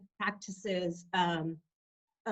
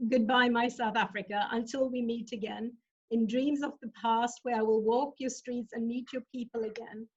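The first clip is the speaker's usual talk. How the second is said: poem reading. Acted. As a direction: read it like a farewell poem, unhurried. Reads her own poem aloud.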